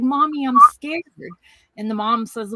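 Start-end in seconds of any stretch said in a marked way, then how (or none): 0.0-1.0 put-on scared little girl. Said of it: "she's like".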